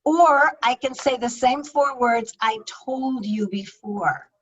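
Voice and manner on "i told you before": slower, with a quiet edge of reproach; a little edge. Shown as a demonstration. Speaker showing tone, said with a quiet edge. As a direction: let a bit of annoyance creep in. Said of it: "there's a little bit of edge in there".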